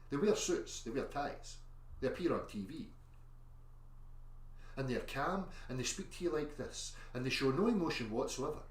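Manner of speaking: mock-calm presenter voice; calm mainstream persona. Shown as a demonstration. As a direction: play the smooth composed TV expert. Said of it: "let me get my mainstream persona".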